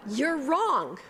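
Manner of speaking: wrong said high and loud through a laugh; giggling blunt retort; laughing you're wrong. Shown as a demonstration. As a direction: laugh as you punch wrong. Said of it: "How's that for a pastoral response?".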